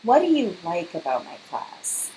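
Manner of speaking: \"what\" falling, skeptical tune; falling, doubtful \"what\"; doubtful question tone. Shown as a demonstration. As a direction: ask \"What do you like about my class?\" as if expecting complaints. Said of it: "I could say things like this accidentally".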